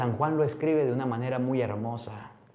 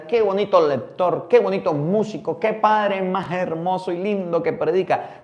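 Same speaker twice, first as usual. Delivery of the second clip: burla de beata; 3 semitones higher than usual. Retold or imitated. Burla de la beatería en misa.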